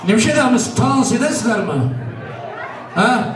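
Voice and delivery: kalabalığa yüksek sesle sesleniyor; seslenerek. Real, not acted. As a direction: misafirleri dansa çağırır gibi bağır. Calling guests to dance. (coşkuyla seslenme)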